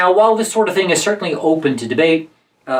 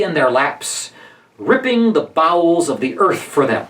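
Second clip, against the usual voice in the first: verse reading. Acted. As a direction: read the lines out as measured verse. Reads Barabbas's speech aloud.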